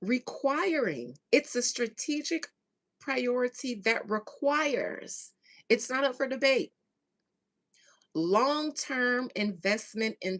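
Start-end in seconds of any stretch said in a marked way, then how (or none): 1.3-5.3 strategic stressed and slowed. Shown as a demonstration. Reading the quote to viewers, stressing strategic. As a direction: hit strategic, let priority trail. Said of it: "Emphasis on the word strategic".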